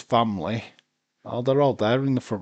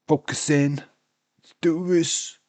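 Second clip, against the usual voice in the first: louder and higher, slowly drawn out; self pep talk; 7 semitones higher, 5 dB louder, slower than usual. Real, not acted. Tired fan psyching himself up for the match, loud and slow. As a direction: psych yourself up, dragging each word. Pumping himself up while exhausted.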